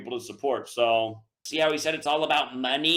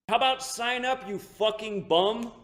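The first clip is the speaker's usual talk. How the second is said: contemptuous jab; 5 semitones higher, slower than usual. Real, not acted. Insulting a non-subscriber.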